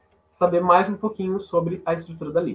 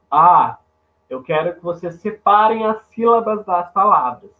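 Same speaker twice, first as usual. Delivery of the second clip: imitating teacher; 5 dB louder than usual. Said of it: "aquele professor de português ia falar assim".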